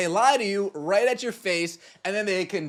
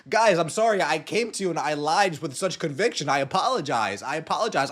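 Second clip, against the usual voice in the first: mock apology; 2 semitones lower than usual. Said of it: "spewing a whole bunch of lies and saying".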